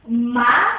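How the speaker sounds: "máquina" split into má, qui, na with long pauses; syllable by syllable. Shown as a demonstration. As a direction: break "máquina" into three syllables, a loud MÁ first. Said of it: "Vamos colocar sílaba em sílaba".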